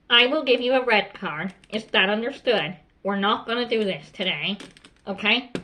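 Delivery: measured, firm warning to a pupil; controlled, no-nonsense classroom discipline; firm teacher voice. Shown as a demonstration. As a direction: warn firmly without raising your voice. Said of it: "you use a very firm voice".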